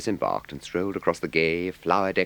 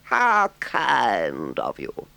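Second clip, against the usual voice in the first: high, slow, gushing toad voice; a much higher, delighted voice; boastful Toad; 5 semitones higher, 4 dB louder, much slower than usual. A narrator's reading. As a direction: gush over the visitors. Toad's line.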